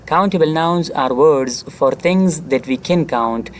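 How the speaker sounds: slow, careful reading of the definition; teacher reading the rule aloud slowly; slow textbook reading. Shown as a demonstration. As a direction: read it word by word for the class.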